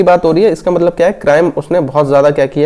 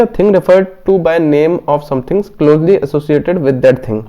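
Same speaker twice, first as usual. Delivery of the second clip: slow, deliberate reading of the quiz text; slow question reading; much slower than usual. Acted. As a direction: read each word out slowly for the class. Reads the question text aloud.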